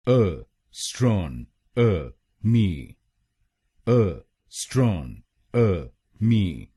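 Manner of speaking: अ, स्ट्रॉन, अ, मी broken apart, very slowly; slow syllable-by-syllable. Shown as a demonstration. Teacher breaks the word into syllables for learners, slow demo. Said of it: "तो बनेगा एस्ट्रोनॉमी".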